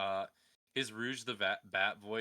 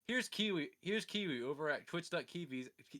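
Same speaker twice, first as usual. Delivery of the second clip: hype announcer; 7 semitones higher, 6 dB louder than usual. Shown as a demonstration. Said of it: "here's me advertising".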